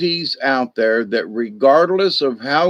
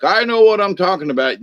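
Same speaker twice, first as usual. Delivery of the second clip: higher, quick know-it-all imitation; egotistical; 6 semitones higher, faster than usual. Moderator showing how ego sounds, quick smug mockery. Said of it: "if they smell ego".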